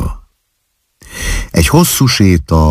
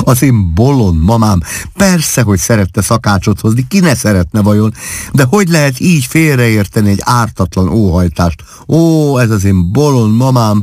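higher voice bubbling with laughter; laughing fondly; 6 semitones higher than usual. Acted. Wife laughing at her mother's misunderstood wish. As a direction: talk through laughter about a silly mother. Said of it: "úgy kaszagott".

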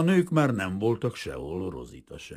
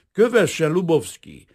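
firm command; 4 semitones higher, 7 dB louder than usual. Acted. Detective orders him again.

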